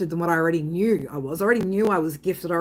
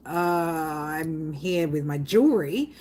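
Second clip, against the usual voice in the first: hesitant, awkward; 3 semitones lower, much slower than usual. Retold or imitated. Caught off guard by request.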